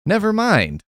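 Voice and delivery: lightly voiced careless creator; mock flippant. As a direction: toss it away lightly. Mock Frankenstein giving up.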